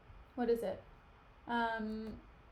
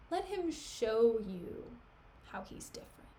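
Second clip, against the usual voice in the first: sinister Iago; 3 dB quieter than usual. Retold or imitated. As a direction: let it sink to a creepy whisper. Iago hinting ominously.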